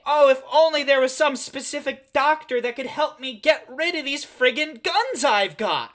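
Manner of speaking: hammed-up panicked whining; whiny celebrity. Mock celebrity whining about arms.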